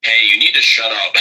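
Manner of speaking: sharp. Retold or imitated. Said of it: "But I got very sharp".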